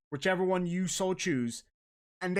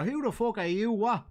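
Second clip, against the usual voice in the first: put-on higher-pitched rough-and-ready Dublin accent; Dublin fella; 5 semitones higher than usual. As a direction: challenge them like a Dublin local. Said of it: "then a Dublin fella would go".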